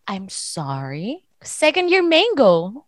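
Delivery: a hint of a teacher's scornful double take; mock incredulous teacher. English teacher mocking the student's pronunciation, slow and incredulous. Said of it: "Sabi niya".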